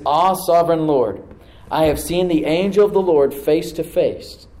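slow, loud awestruck cry; hushed-to-loud amazement; awed Gideon. Acted. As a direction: cry out in awe at the vision.

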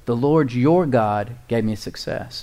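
slow repeat with "your" set apart; stress on YOUR. A narrator's reading. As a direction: make them notice the word "your". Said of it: "Notice that".

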